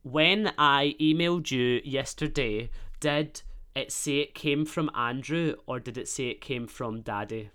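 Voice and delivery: slow, careful dictation to a phone; dictating. Real, not acted. Host dictating a text to Siri, measured. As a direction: spell it out clearly for voice recognition.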